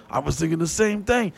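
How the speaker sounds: lightly voiced friend with a laugh; a hint of a spooked buddy laughing; Hot Rod answering. Friend agreeing with the teller, lightly voiced with a laugh. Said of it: "He's like".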